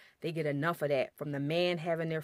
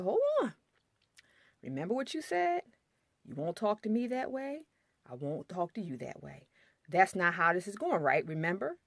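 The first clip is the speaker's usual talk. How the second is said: sassy reminder. Retold or imitated. Wife reminding husband of his own rule, sassy. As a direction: pitch it up and call him out.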